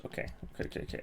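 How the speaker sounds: breathy under-the-breath okays; whispered muttering. Real, not acted. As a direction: mutter it to yourself. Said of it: "muttering to himself".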